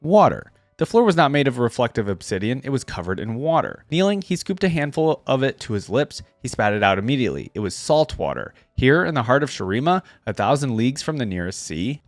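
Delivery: measured storyteller read of a legend; story narration. A narrator's reading. Reading a Shurima legend aloud to his viewers, story narration.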